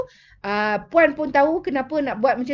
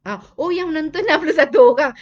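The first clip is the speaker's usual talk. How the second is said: laughing; 4 semitones higher, 6 dB louder, faster than usual. Real, not acted. Host laughing at viewer count.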